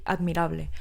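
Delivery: breathy whisper of awe. Real, not acted. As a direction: whisper it, impressed. Awed word in podcast praise.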